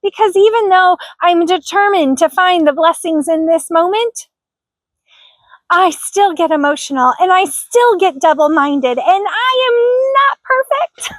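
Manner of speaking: fighting back tears while talking; real tearful catch in the voice; welling up. Real, not acted. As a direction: voice tight and lifting high as tears come. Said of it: "kinda like I am now".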